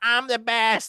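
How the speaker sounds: very high, annoying, boastful, bragging tone. Mocking a wrestler's promo catchphrase: imitating Cora Jade's annoying gimmick. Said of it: "that really annoying gimmick where she's like".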